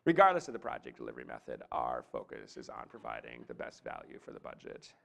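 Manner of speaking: low creaky youthful drone; demonstrating exaggerated vocal fry, creaking through the phrases. Shown as a demonstration. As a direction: let the voice drop into creaky fry. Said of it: "Or vocal fry".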